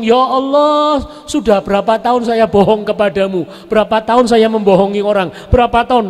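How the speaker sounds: a mock-weeping bandit chief repenting; crying repentance. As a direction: wail out his years of lying. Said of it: "nangis dia ngomong".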